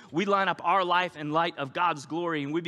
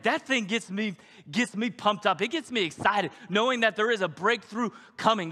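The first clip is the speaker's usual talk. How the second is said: high, eager gushing about a favorite song; mock gushing fan; 5 semitones higher, 4 dB louder than usual. Churchgoer gushing to the pastor about a favorite song, excited. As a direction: rave like a pumped worshipper.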